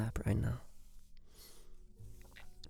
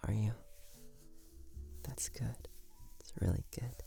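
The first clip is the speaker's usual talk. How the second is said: sweet nothings; 4 dB quieter than usual. Acted. Boyfriend soothing sweet talk.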